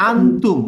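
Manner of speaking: আনতুম with the opening আ pressed clearly from the throat; clear ain. Shown as a demonstration. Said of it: "clear উচ্চারণ".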